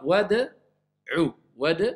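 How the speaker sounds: WAD'U in two clean parts, "wad", then "u"; neutral qalqala. Shown as a demonstration. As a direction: bounce the D of Wad'u neutrally before the U. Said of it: "mais je la laisse neutre".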